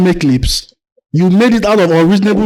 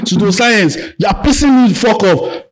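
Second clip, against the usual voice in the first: raised, furious yelling; angry shout; 2 semitones higher than usual. Real, not acted. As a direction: shout him down in anger. Heated religion argument, yelling.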